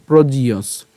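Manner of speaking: "প্রজিয়স" run together, the ইয় said through the nose; joined nasal sound. Shown as a demonstration. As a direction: join "প্রজিয়স" as one word with a nasal ইয়. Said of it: "ইয়টাকে আমরা নাকে উচ্চারণ করছি". ("প্রজিয়স" একসাথে, ইয় নাকে)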